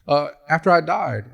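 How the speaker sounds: high, excited wife voice; bubbly, high-pitched delight; gushing wife. Acted. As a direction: gush at the husband arriving at heaven's gate. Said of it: "And so she's like".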